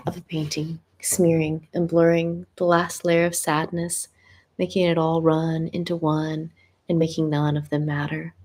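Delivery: measured spoken-word delivery with pauses; deliberate recital, letting each phrase land; poetry reading. Real, not acted. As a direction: read your own poem aloud, phrase by phrase. Reads own written piece aloud.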